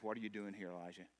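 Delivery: soft, hushed question; God gently asking the hiding prophet; gentle whisper. Retold or imitated. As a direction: ask it quietly, almost tenderly. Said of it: "gentle whisper".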